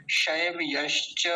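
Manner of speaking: शैव यश्च slow, slight gap, clear y; perfect model pronunciation. Shown as a demonstration. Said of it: "perfect उच्चारण होगा इसका". (शैव यश्च, सही और साफ़)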